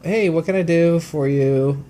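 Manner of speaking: mock customer-service greeting, stretched slow; imitated clerk's greeting.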